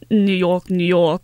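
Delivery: exaggerated New York accent; mock New York accent; bad New York accent. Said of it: "with a really bad New York accent".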